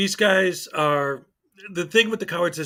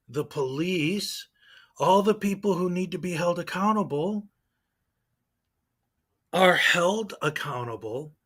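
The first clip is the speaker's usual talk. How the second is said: sarcasm; 2 semitones higher than usual. Real, not acted.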